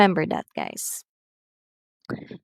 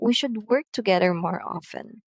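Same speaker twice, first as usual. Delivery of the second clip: statement falling on "often"; falling intonation; 3 dB quieter than usual. Shown as a demonstration. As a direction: let "often" drop to a close. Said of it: "usually using falling intonation".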